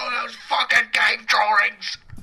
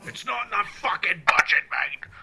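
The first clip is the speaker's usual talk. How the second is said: mock furious rant; hammed-up ranting boss; angry producer rant; 3 semitones lower than usual.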